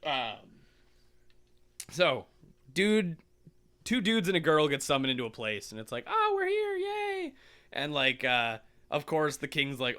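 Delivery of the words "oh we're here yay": high-pitched gleeful yay; mock cheer. Summoned friends greeting their new world, mock cheer. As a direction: squeal it like a delighted newcomer.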